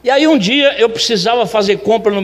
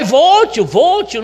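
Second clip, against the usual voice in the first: imitated eager helper, higher; eager agreement; 7 semitones higher, much slower than usual. Helper agrees to go shopping for uncle, eagerly.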